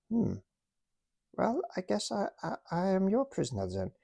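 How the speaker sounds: put-on high, lightly accented stubborn officer; German toy officer defending his map, in a high stubborn voice. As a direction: insist on the map, pitched high.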